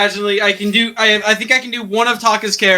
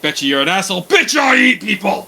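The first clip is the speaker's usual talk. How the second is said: quoted Alucard line, laughing. Retold or imitated.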